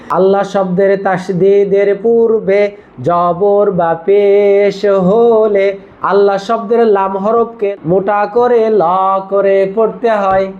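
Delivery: put-on slow, even rule recitation for children to repeat; slow dictation read. Shown as a demonstration. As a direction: read the rule out slowly and evenly. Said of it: "আমরা যেভাবে বলছি এভাবে আপনি শেখাইতে পারেন".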